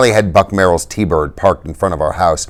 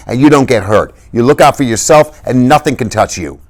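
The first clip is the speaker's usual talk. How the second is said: higher, rambling tough-guy rant; raving Dally; 5 semitones higher than usual. Acted. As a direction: rave on without stopping. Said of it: "Dally kept talking and talking".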